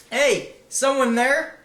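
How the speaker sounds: high, loud, slow call; the prisoner calls out loud and high. Acted. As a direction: shout down the corridor for help. Calling out from prison cell.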